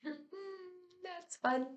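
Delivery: laughing. Real, not acted. Laughing at her yawning comment.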